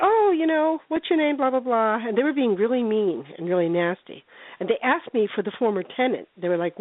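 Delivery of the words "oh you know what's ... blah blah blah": lightly imitated friendly chat, starting high; acting nice. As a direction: put on a sweet, higher voice to be nice. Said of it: "I was trying to be nice".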